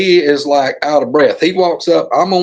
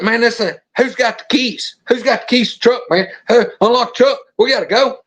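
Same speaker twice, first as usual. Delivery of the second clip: retold urgency, voice pitched up; panicky buddy; 5 semitones higher than usual. Buddy demanding the truck keys to leave, mildly panicky. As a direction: imitate the buddy anxious to get away.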